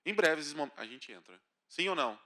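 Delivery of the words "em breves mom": low, slow boarding call; airport announcement. Retold or imitated. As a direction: drone it like a gate announcer. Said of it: "te chamam".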